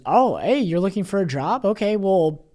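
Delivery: lightly voiced cheerful receptionist; bright rising quote of the assistant; perky assistant. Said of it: "Stacy just goes".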